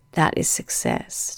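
hoarse, croaking voice; croaky frog voice. Real, not acted. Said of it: "my croaky frog nana voice".

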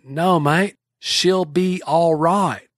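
slow, careful New Zealand 'she'll be all right'; lightly voiced New Zealand, slowed down; slow New Zealand accent. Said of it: "they said it so darn fast".

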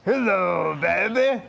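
drawn-out catchphrase impression, lightly done; a hint of rock-and-roll showman; a singer. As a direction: repeat the showy greeting on request. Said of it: "do it again".

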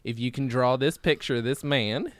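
lightly put-on comedian's Czechoslovakian routine; quoted comedian's bit. Comedian showing off a local publication, lightly voiced bit. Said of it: "I'm quoting a bit from one of my favorite comedians".

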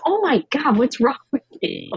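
lightly voiced husband scolding; mock husband. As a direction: toss it off as the stunned husband. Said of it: "My husband goes".

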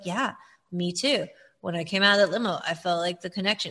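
low-key, toneless agreement; emotionless Dale. Retold or imitated. Co-host imitating him going along with her confessions, emotionless. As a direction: echo her with no emotion at all. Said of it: "with no emotion".

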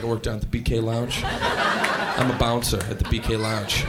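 put-on bragging to girls. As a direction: play it smooth and self-important to impress. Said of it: "I was like".

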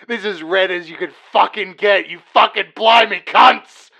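rough Cockney machine voice, swearing; Cockney accent. Pretend. Red machine insulting the ad crew, Cockney accent. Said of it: "now we've got accents".

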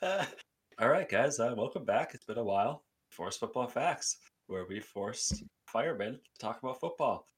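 slow, lifted host opener; measured show-intro delivery; podcast intro. Acted. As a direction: open the show for the listeners, drawing out the words.

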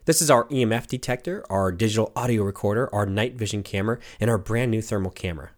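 usual speaking voice

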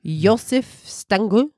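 mock German accent on the name. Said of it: "I'm just saying it in a German accent".

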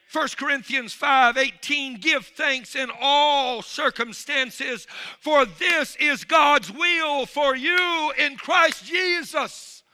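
slow, loud, high shouted scripture; preaching at full force. Acted. Preacher proclaiming the verse to his congregation, shouting slowly. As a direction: thunder the verse out slowly to the church.

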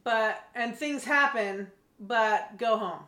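slow, drawn-out lukewarm telling-off; mild, half-hearted order. Retold or imitated. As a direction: imitate a reluctant, weakly worded send-off, dragging the words. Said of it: "Not even in those strong of terms".

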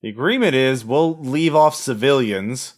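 slow, lightly gravelly bargaining villain; a hint of a cold negotiator. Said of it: "a gravelly voice".

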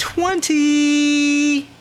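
high, loud cheer of triumph; excited shout. Real, not acted. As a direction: yell it out in joy. Celebrating a natural twenty.

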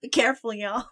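light Southern y'all; southern accent. Pretend. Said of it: "Witch King with a southern accent".

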